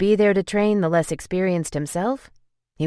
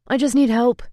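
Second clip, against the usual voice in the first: exasperated plea; 9 semitones higher, 6 dB louder than usual. Acted. Angel pleading about hiring.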